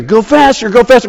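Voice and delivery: urging. Retold or imitated. Friends urging driver on.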